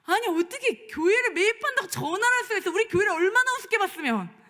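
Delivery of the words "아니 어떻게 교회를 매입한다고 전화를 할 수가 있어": ordinary talk, nothing marked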